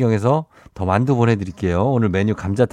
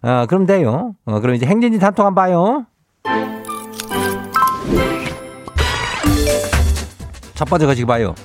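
Chungcheong dialect; 6 semitones higher than usual. Acted. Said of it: "행진리 이장인데요".

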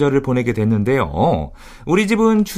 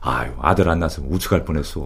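low, soft fond father; quiet father voice; 10 semitones lower, 4 dB quieter, faster than usual. Retold or imitated. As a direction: mumble it like a shy dad. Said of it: "어머니한테 그랬대요". (낮고 조용한 아버지 말투)

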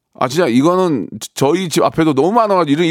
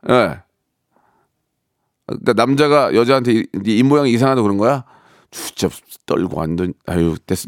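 ordinary talk, nothing marked

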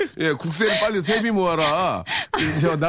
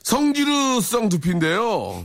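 drawn-out punchline, slow; 4 semitones higher, slower than usual. Acted. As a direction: stretch each syllable of the joke.

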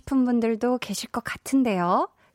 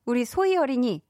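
usual speaking voice

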